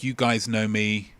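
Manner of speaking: lightly voiced Mark Wahlberg; Mark Wahlberg impression. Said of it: "It's a good written impression".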